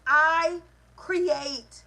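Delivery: loud, forceful declaration; from the chest. Shown as a demonstration. Coach showing listeners how to declare it, from the chest. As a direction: say it big from the chest. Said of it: "Say it with your chest".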